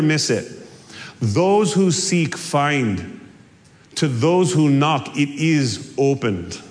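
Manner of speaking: lightly voiced Scottish lilt for MacDonald's quote; Scottish accent. Pastor quoting MacDonald to his congregation in a light Scottish accent. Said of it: "he says it in a really thick Scottish accent".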